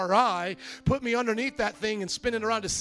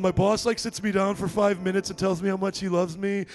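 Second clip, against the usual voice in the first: lightly voiced employee airing a grievance; a hint of an uncomfortable employee; complaining employee. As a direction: put on a mildly weirded-out worker's complaint. Imagined employee complaining to pastor.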